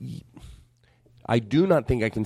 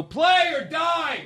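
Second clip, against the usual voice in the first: mock threat; much slower than usual. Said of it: "and I would go".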